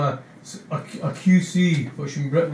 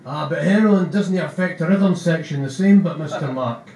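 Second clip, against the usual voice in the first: eager, slightly louder bandmate voice; Keithbo explaining; 4 dB louder than usual. Acted. Keithbo explaining drugs and rhythm to Rents, a bit louder. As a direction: earnestly explain it to Mark. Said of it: "Keyswell explains".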